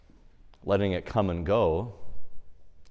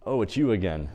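offhand, unimpressed greeting; dismissive acknowledgement. Acted. Saint shrugging off the devil, dismissive. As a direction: wave off a familiar nuisance without concern. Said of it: "Kind of almost like a dismissive acknowledgement".

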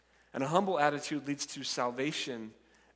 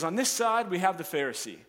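announcing; 4 semitones higher, 4 dB louder than usual. Retold or imitated. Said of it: "and he's the narrator".

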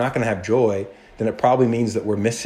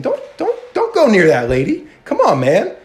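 higher, louder warning to back off; protective warning; 10 semitones higher, 3 dB louder than usual. Acted. Jesus warning the ruler away from the woman, loud. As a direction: step in front of her and warn him off.

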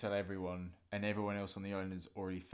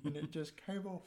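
silly voice; 7 semitones higher, slower than usual. Pretend. Islander gossip, silly voice.

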